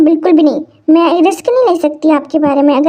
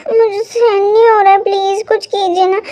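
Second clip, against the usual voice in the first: whimpering in pain. Acted.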